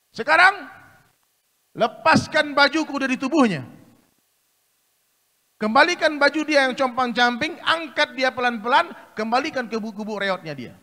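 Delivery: loud, high commanding king; royal command. Acted. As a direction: order it from the throne. Great king gives a command.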